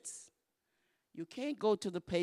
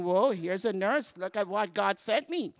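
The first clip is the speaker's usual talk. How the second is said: delighted patient; 7 dB louder than usual. Pretend. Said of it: "He's thinking".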